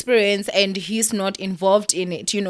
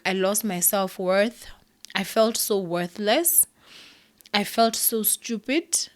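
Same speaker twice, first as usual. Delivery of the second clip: slow and softer, almost whispering; hurt, hushed confession; 4 dB quieter than usual. Real, not acted. Telling viewers how worthless she felt, slow hushed pain. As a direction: let the pain pull the voice down.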